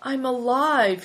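high, slow sigh of relief; relieved. A narrator's reading. Hailstone finding he can stand, relieved. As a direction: let relief stretch the words.

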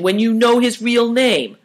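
high-pitched complaint; complaining. A narrator's reading. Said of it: "complained Chin".

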